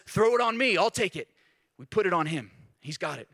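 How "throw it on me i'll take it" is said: God's voice. Retold or imitated. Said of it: "And God says".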